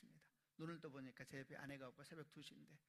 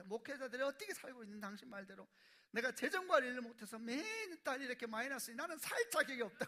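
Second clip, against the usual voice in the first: higher, louder quoted despair of the wife; retold tearful wife; 8 semitones higher, 8 dB louder than usual. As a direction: voice the crying wife's despair, rising. Wife crying, quoted at night.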